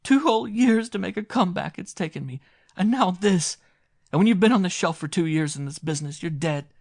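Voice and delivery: very high, loud wailing sobbing speech; hysterical lament. A narrator's reading. Washed-up actress wailing over her lost comeback, hysterical. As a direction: wail it out between heaving breaths. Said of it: "she heaved with ricocheting breath".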